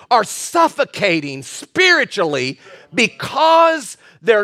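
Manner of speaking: slow, weighty sermon emphasis; passionate preaching. Real, not acted. Preacher challenges believers on reading the Word, passionately. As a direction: drive the point home with long, stressed phrases. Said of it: "can you tell I'm passionate about this".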